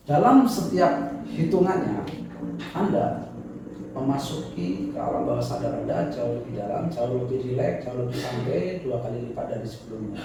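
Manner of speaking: hypnotic suggestion. Acted. Deepening suggestion to subject.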